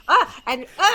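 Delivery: loud imitated outraged "ah"; short loud exasperated outbursts; mock freak-out cries. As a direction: cry out as if appalled, hammed up. Imitates Missus Olsen freaking out.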